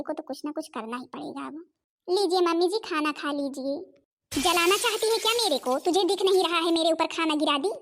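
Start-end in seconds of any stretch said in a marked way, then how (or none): 4.3-7.7 angry scolding. Acted. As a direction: snap at the daughter-in-law over the spill. Food spilled on the mother. (बहू को गुस्से में डांटती माँ)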